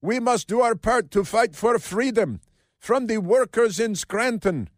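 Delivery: high mock-orator with put-on accent; Josh Shapiro. Host quoting the governor's rally speech, mocking put-on accent. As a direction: declaim in a caricatured speechmaking accent. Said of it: "Why did he speak with that accent?".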